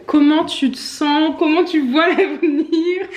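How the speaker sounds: hammed-up sports interviewer; mock interviewer. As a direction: play a post-match interviewer, half-joking. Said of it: "Une interview après un match de foot".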